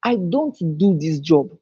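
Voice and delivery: soft, slow polite refusal; measured, kindly no. Retold or imitated. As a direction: decline gently and respectfully. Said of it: "With kindness".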